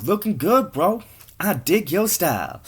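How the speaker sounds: high, lilting bro voice; admiring passer-by. Acted. Passer-by to tattooed guy, high admiring lilt. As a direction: pitch it up, cheering him on.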